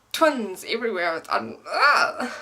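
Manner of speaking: breaking into a helpless laugh; laughing exasperation. Real, not acted. Telling viewers twins are everywhere, laughing helplessly. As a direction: laugh it off, half overwhelmed. Overwhelmed by twin thoughts.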